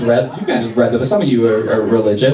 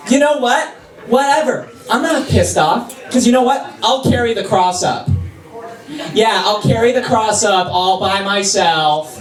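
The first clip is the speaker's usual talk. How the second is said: mock passive-aggressive martyr, pitched up; sassy Jesus; 6 semitones higher, slower than usual. Comedian playing Jesus to the crowd, sassy and passive-aggressive. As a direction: sigh it out like a put-upon saint. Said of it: "He was just being a sassy, passive-aggressive bitch".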